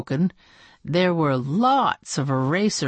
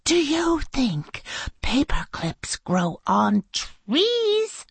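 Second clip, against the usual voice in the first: mock sarcastic teacher; 9 semitones higher, slower than usual. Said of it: "slammed her hand on the desk".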